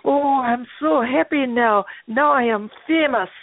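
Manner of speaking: put-on slow, lightly Jamaican accent. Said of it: "And in his Jamaican accent".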